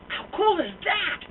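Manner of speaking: high, slow, gleeful question; delighted. Real, not acted. Telling the audience about his nemesis, high and gleeful. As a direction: savor the thrill.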